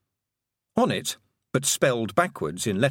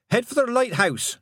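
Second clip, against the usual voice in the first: put-on girl's voice; 12 semitones higher, 3 dB louder than usual. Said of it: "she said".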